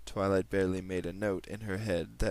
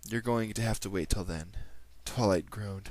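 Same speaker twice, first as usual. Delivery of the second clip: put-on Australian accent. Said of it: "reading this story with my Australian accent".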